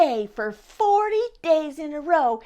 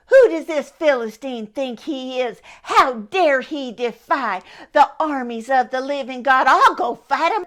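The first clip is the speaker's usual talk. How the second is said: louder, indignant outburst building to a shout; a boy fired up and ready to fight; fierce, growing cry of defiance; riled up; 4 dB louder than usual. Acted. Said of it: "David was riled up".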